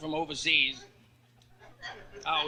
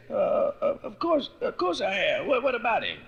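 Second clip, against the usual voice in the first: flustered cat; 7 semitones higher, 5 dB louder than usual. Acted. Flustered cat dodging question.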